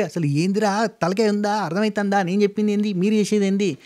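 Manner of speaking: replaying his own angry late-night rant; aggressive rant.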